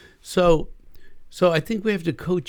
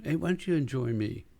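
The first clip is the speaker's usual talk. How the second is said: soft coaxing; 7 dB quieter than usual. Shown as a demonstration. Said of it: "sort of train them".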